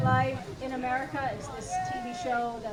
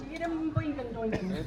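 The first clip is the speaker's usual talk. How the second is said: mock Welsh gibberish; 4 dB quieter than usual. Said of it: "the cashier only speaks Welsh".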